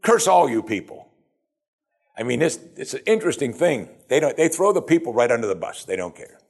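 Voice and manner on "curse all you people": higher-pitched mock condemnation; scornful cursing. Leaders cursing their own people, mock scorn. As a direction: dismiss the whole crowd. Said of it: "there's good leaders of the people".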